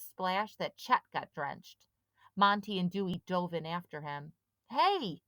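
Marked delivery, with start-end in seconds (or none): 4.7-5.2 calling out. A narrator's reading. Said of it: "Sid called".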